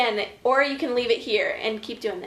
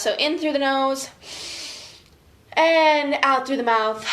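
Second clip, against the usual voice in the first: calm breathing guide. Shown as a demonstration. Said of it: "take a few more deep breaths".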